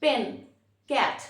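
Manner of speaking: পেন, ক্যাট each in one unbroken beat. Shown as a demonstration. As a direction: say পেন and ক্যাট without any break inside. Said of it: "একবারে বলতে পারতেছি". (পেন, ক্যাট একবারে, বিরতি ছাড়া)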